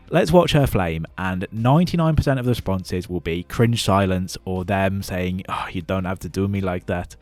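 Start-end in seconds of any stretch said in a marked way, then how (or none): 5.5-7.2 mock Eastern European accent; a bad put-on Eastern European accent. YouTuber mocking the cringe silent replies, in a bad Eastern European accent. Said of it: "That was my Eastern European accent".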